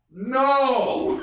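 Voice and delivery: high, long-held call from above; hollered refusal. Retold or imitated. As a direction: imitate yelling down from a roof. Brother shouts refusal from rooftop.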